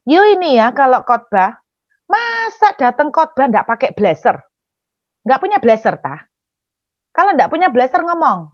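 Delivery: mock lecturing with emphatic lilt; imitated scolding auntie. Auntie criticizes the young preacher for having no blazer, imitated scolding. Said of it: "Terus dia bilang begini".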